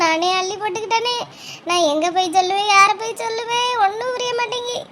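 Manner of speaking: tearful lament. Acted. Distraught woman tells friends she is helpless, tearful lament. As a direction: lament helplessly in a weepy sing-song. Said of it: "எதுக்கு இப்படி அழுதுட்டு வாரியே?".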